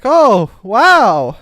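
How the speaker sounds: hammed-up wow; mock impressed. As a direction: gush with exaggerated interest. Acts out reaction to Frenchman's town.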